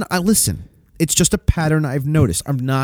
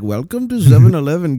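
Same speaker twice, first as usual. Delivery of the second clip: lightly put-on Indian store clerk accent; a hint of an Indian-accented greeting; stereotypical Indian accent; 3 dB louder than usual. Shown as a demonstration. Store employee greets a customer, light Indian accent. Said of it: "an example of that accent".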